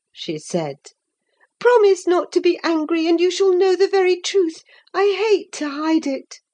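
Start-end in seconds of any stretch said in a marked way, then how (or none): 1.6-6.4 high, coaxing plea; pleading girl. Acted. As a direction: beg her to promise, quickly. Catherine begging for leniency.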